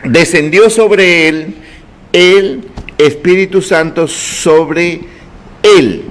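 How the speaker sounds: slow, deliberate reading that leans on "él"; "Descendió sobre él" read slowly, with weight on "él"; careful demo reading. Shown as a demonstration. Teacher showing the congregation how "él" should sound, slow and stressed. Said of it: "Ahora, escuche".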